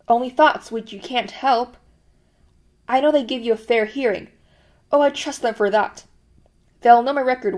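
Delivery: lightly voiced anxious chap, eager and pleading; a hint of a frightened man begging for reassurance; pleading prisoner. Cellmate Parsons begs Winston for reassurance, lightly pleading.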